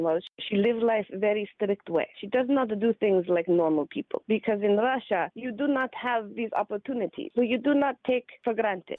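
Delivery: lightly done Russian accent, stern and strict; a mild Russian accent, clipped and serious. Shown as a demonstration. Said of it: "My Russian".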